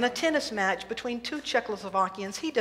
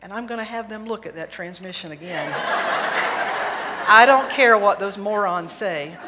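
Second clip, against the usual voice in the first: louder annoyed grumbling; car grumble; 8 dB louder than usual. Acted. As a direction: Roger fuming at the mechanics over his transmission, louder. Roger grumbling about his car.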